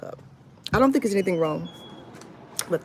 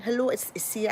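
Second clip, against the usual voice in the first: put-on New York accent; 2 semitones higher than usual. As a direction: try a New Yorker's phone greeting. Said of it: "However, the New York accent. Forgive me".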